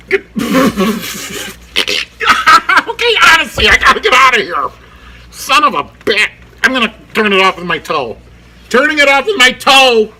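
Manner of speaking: high, loud, laughing outburst; loud, giddy sign-off; laughing exasperation. Real, not acted. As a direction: call out through helpless laughter while trying to wrap up. Laughing while struggling to end vlog.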